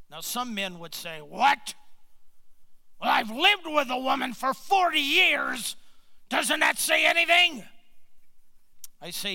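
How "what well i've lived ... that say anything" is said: loud, high, hammed-up exasperation; indignant mock outburst. Husband challenged on saying I love you, loudly indignant in mockery. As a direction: shout it like an affronted husband, pitch climbing.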